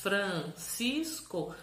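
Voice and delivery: FRANCISCO slow, a gap after each syllable; three separate, lengthened beats on Francisco; cut into three pieces. Shown as a demonstration. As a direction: chop Francisco into Fran, cis, co. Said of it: "a sílaba em três pedaços".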